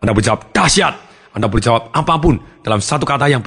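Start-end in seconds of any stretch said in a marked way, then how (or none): 0.5-1.0 "Dahsyat" pitched up, emphatic; above-average enthusiasm. Shown as a demonstration. Trainer models an above-average person's answer, enthusiastic. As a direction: answer like someone doing great. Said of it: "orang di atas rata-rata".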